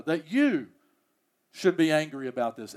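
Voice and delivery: emphasis falls on "you"; stress on you. Shown as a demonstration. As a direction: lean on "you" with a fall, pointing at Jonah. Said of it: "the emphasis on Jonah".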